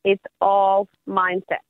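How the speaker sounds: "It's all mindset" said slowly and deliberately; slow emphatic repeat. Shown as a demonstration. Life coach repeats her message for listeners, slow and emphatic. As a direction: spell out "It's all mindset" word by word, unhurried. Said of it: "let's say that again".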